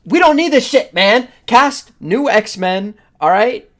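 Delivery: loud, high-pitched exasperated rant; fed-up fan shouting at the studio; frustrated shout. Real, not acted. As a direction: yell it out, fed up. Frustrated rant about old casting.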